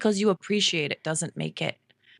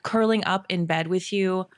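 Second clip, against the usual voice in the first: tender. Retold or imitated. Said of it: "I was like".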